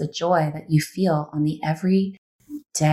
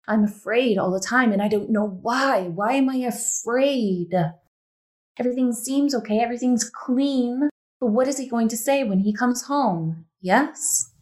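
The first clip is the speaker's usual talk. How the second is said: higher, anxious voicing of her worried thoughts; fearful inner voice; 5 semitones higher than usual. Coach voices the client's fearful inner thoughts, anxious and higher. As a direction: speak her fear aloud, higher, like a nervous wife.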